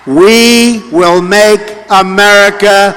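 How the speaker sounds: slow, drawn-out final slogan; rally speech. Real, not acted. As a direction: stretch the last promise for the crowd.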